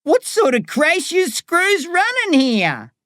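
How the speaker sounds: lightly voiced inmate calling out; hollering. A narrator's reading. Inmate hollers to the guards, mildly.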